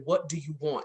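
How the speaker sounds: low, soft deadpan mother; suspicious mother. Retold or imitated. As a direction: flatly ask what she's after.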